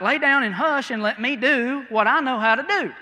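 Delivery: loud, high, fed-up doctor; exasperated doctor. Retold or imitated. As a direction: shut the patient up, annoyed. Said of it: "the doctor's like".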